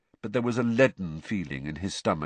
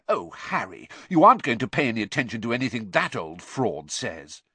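derisive; 4 semitones higher, 4 dB louder than usual. Acted. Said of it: "let out a derisive snort".

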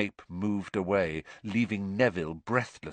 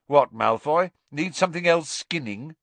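sharp challenge; 8 semitones higher, 6 dB louder than usual. Acted. Challenging a watching rival.

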